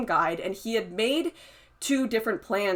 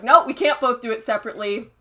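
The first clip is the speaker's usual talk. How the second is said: mock angry retort; 4 semitones higher, 6 dB louder, faster than usual. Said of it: "She's like".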